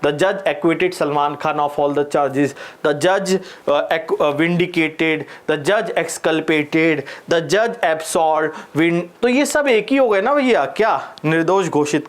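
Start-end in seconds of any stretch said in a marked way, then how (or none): 0.0-2.5 slowly dictating an example sentence; teacher dictating the example slowly. Shown as a demonstration. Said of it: "example में मस्त change करते जाओ". 4.2-8.5 very slow, word-by-word dictation; teacher slowly dictating the swapped verbs. Shown as a demonstration. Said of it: "example में मस्त change करते जाओ".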